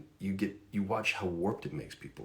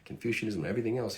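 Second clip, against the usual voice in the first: higher, quick southern accent, imitating a roommate; 4 semitones higher, faster than usual. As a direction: do a Georgia friend's southern accent, pitched up. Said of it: "hence the southern accent".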